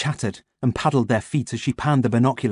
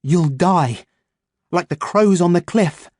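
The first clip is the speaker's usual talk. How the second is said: crow threat; 7 semitones higher, 4 dB louder, slower than usual. Acted.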